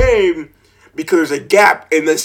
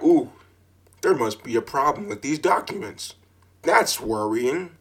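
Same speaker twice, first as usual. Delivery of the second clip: mock worried aside; 4 semitones lower, 8 dB quieter than usual. Mock-worried quote to clerk.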